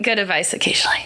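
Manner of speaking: quick whispered afterthought; whispered aside. Real, not acted. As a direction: whisper it under your breath like a sheepish aside. Self-deprecating aside to co-host.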